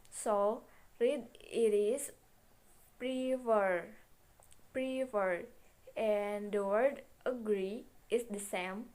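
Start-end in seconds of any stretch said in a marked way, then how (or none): 3.0-5.4 "prefer" with emphasis on pre and a long drawn fur; stress on pre, long fur. Shown as a demonstration. Teacher reading out an example word, stressed prefer with long vowel. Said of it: "the emphasis is on the word pre, and the long vowel".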